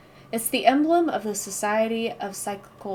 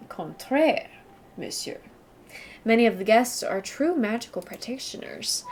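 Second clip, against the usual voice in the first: put-on a light, amateur French accent, monsieur and all. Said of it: "I wish I had a good French accent".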